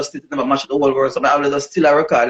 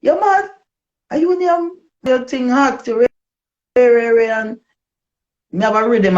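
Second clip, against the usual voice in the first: much higher, squeaky mock voice of Lady G; 12 semitones higher than usual. Impersonating Lady G scolding her for giving up, high pitched. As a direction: mimic your friend scolding you in a high squeal. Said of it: "And Lady G said to me".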